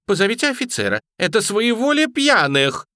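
high, loud indignant protest; indignant lady. A narrator's reading. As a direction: demand an officer, outraged. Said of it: "барышня возмущалась". (возмущённо, высоко и громко)

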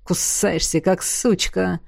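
низкий медленный презрительный бросок; брось с презрением; презрительно. Acted. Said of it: "презрительно бросил он". (Изергаст презрительно бросает Джафу)

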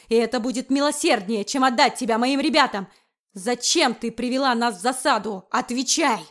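loud, menacing demand; furious threat. Acted. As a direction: force the answer out of her. Wickford threatening Erika.

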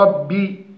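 ربي with the final i cut short, as a fault; ربي باختلاس كسرة الباء; snatched kasra. Shown as a demonstration. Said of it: "اختلاس الكسرة".

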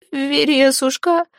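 high, drawn-out pleading cry; terrified plea. Acted. Zateya begs the dead Veres, teeth chattering with fear.

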